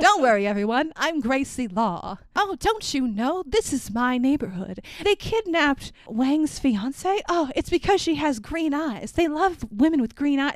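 mildly hammed-up old-timey stage voice; a light mock of Gracie Law's theatrical lines; stagey Our Town. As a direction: play her like a 1950s school play. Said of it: "talks like she's in Our Town".

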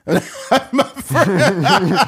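said through laughter; laughing. Real, not acted. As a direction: laugh while saying it.

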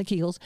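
Kegels with a long E, KEE-gulz; first syllable of Kegels rhymes with see; alternate pronunciation. Shown as a demonstration. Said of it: "Some people say".

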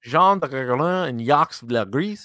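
mushy, muffled French names; like peanut butter stuck to the roof of the mouth; mouth full of peanut butter. Real, not acted. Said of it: "you sound like a dog with peanut butter stuck to the roof of your mouth".

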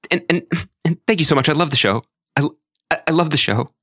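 mildly hyped, stammering gush; Terry. Retold or imitated. Imitating the interviewer thanking her guest, hyped. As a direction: imitate a flustered, excited interviewer. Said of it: "when she's really hyped".

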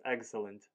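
"Excellent" run together as "eg-sə-lənt"; said fast, together. Shown as a demonstration. Co-host coaches friend to put it together, quick "Excellent". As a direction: say "Excellent" quickly as one joined word. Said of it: "say it fast".

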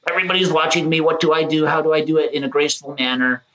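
high, anxious inner thoughts; nervous inner voice. Retold or imitated. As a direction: wonder aloud, high and unsure. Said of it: "you're like".

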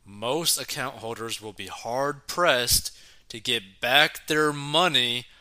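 reading an article aloud; news read. Acted.

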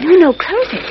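sharp order to shut the door; firm insistence. Acted. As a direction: cut him off and insist. Lois insists in the dark.

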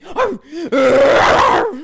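loud, high playful arfs; barking dog. Acted. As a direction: bark for the crush. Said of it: "No man can make me bark".

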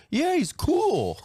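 hammed-up high, loud, drawn-out cheer; mock approval. People approving of the creep, hammed-up loud enthusiasm. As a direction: cheer him on in an exaggerated high shout. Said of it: "And people been like".

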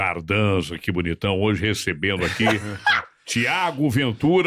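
low-pitched radio host introducing guests; Emílio. Retold or imitated. Imitating the host welcoming today's guests, low announcer voice. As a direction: drop the voice and stretch out the guest's name. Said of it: "fica imitando o Emílio".

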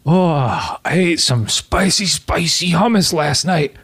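mock urgent. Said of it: "You just say".

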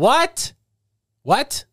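Nikki. Pretend. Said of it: "I'll be Nikki".

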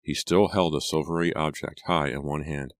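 ordinary delivery

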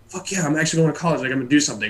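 quick, thrilled burst; excited. Retold or imitated. Retelling getting his college acceptance, excited.

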